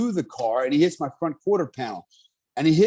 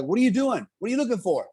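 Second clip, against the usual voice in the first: higher-pitched questioning mimicry of a wife; imitated ex-wife; 7 semitones higher, faster than usual. Ex-wife to husband digging in the toolbox, imitated in a high voice. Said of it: "my ex-wife's like".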